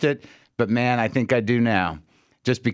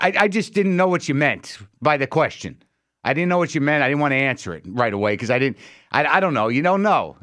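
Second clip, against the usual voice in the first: imitating defensive stranger; 2 semitones higher than usual. Imitating a man explaining himself in the elevator, mildly defensive. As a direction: stammer a defensive explanation, raised pitch. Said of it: "was completely defensive".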